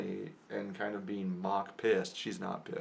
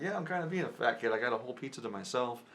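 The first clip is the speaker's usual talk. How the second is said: going with it; 3 semitones higher, faster than usual. Retold or imitated. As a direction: rattle off a self-mocking joke. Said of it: "I was going with it".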